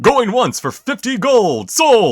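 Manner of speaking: high, loud, fast-selling auctioneer. Acted. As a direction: call it like a lively auctioneer. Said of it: "very, like, active auctioneer's voice".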